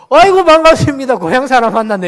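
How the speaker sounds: hearty greeting. Retold or imitated. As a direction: greet a fellow Daegu native with delight. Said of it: "이렇게 인사하고". (반가운 고향 사람 인사)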